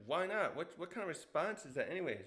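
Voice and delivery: acted quick, put-out comeback; mock-offended challenge, starting high; indignant protest. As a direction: demand an answer, lightly exasperated. Retold indignant reply to refusal.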